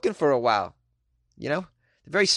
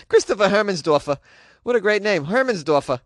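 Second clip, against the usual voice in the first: name said again with gusto, higher; relishing the name; 4 semitones higher than usual. Pretend. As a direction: repeat the name with a delighted flourish.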